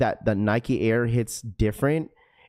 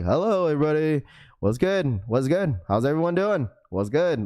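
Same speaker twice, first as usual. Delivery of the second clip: upbeat greeting; 3 semitones higher than usual. Retold or imitated. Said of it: "you walking in, like, monotone".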